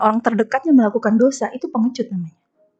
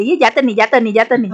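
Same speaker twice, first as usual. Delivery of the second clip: put-on defiant child taunt; 4 dB louder than usual.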